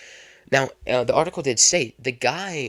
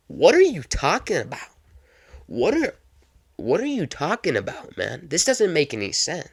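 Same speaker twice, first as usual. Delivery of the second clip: acted indignation, pitched up; incredulous protest; 4 semitones higher than usual. Unpaid cab driver challenges passenger's offer, incredulous. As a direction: push back like a cheated driver, pitch jumping up.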